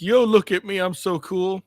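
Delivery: cocky mock bragging; show-off voice. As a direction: play the vain cameraman. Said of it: "he wanted to be like".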